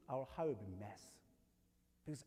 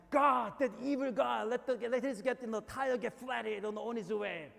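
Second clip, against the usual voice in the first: mock curse prayer; 5 semitones higher, 7 dB louder than usual. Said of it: "I'm just kidding".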